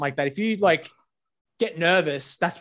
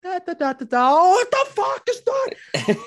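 casual humming cut off by a sting; buzz then shock; 14 semitones higher, 3 dB louder than usual. Retold or imitated. Acting out a wasp attack for the podcast, hummed buzz then high shocked cry. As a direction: hum the buzz lightly, then jump high into a slow, alarmed "what the fuck is that".

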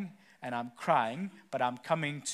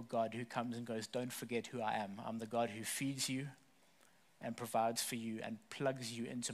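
prayer. Acted. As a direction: pray gently over the room. Closing prayer over congregation.

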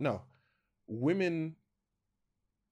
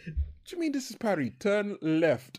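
mock exasperation; 7 semitones higher than usual. Driver arguing back at the sign.

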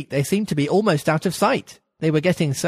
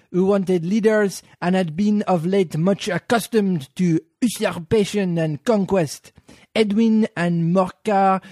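slow, measured lecture voice; slow solemn recitation; dry history reading; slower than usual. Acted. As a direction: drone it out like a dull history lesson. Reads the Mouse's dry history.

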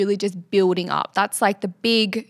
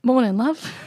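mock Nathan; 3 semitones higher than usual. Voicing Nathan in pretend scene.

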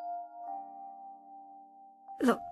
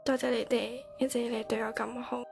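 tag; 5 semitones higher, 10 dB quieter than usual. Acted. Tearful farewell, alone.

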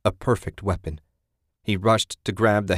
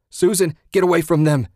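loud, raised-pitch holler; 8 semitones higher, 6 dB louder than usual. A narrator's reading. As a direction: holler an urgent warning to your wife. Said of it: "Ted hollered".

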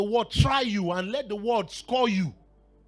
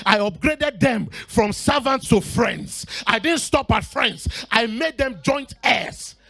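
louder preaching with weighty phrases; emphatic preaching; 6 dB louder, slower than usual. Acted. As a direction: proclaim each phrase to the congregation. Preaches in God's words.

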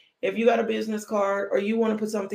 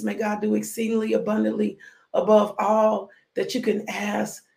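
pronouncing a blessing. Acted. Preacher blessing her online congregation, benediction voice. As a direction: bless them line by line, winding down. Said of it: "let me bless you out my mouth".

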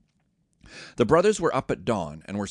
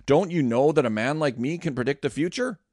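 higher, mock-stern demand; 4 semitones higher, 5 dB louder than usual. Joseph confronts his brothers, a mild stern demand. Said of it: "Joseph demanded".

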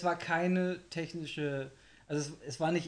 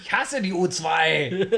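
laughing; 2 semitones higher, 10 dB louder, slower than usual. Real, not acted. Mock complaint through laughter.

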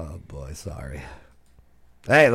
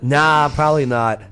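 laughing. Real, not acted. Laughs while answering teasing.

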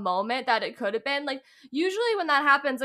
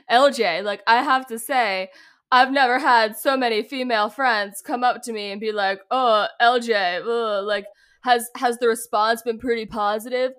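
lightly put-on mocking male voice, louder; Jeff Probst impression; 6 dB louder than usual. Host asks a player about admirers, mock man voice. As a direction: tease with a loud, faintly mock host delivery. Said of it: "mocking this man voice".

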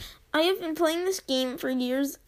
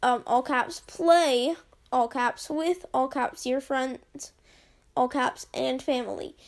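hammed-up all-caps delivery; all caps emphasis. Shown as a demonstration. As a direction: shout the all-caps words. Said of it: "the amount of all caps".

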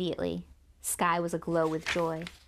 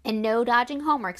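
stern father; 4 semitones higher, 7 dB louder than usual. Acted. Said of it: "said her father".

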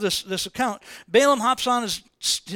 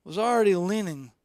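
ordinary delivery

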